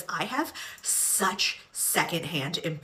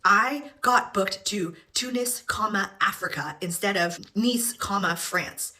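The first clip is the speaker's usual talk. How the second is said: imitating the girl. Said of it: "The girl keeps talking into her phone".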